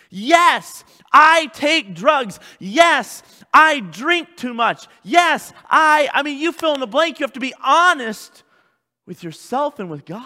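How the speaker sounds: loud, high, emphatic confession; impassioned preaching. Real, not acted. Pastor modelling confession to the congregation, full-force preaching. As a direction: ring out each admission with force.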